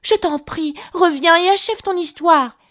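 high, pleading call; crying out. A narrator's reading. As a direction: beg someone to come back. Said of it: "s'écria Alice". (appel suppliant, voix aiguë)

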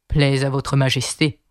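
meek, subservient gardener; very humble. A narrator's reading. Kneeling gardener addresses the queen: very humble. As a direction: say it humbly, as a lowly subject. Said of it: "d'une voix très humble".

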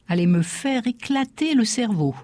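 put-on superstitious old woman. Old Corsican concierge's warning.

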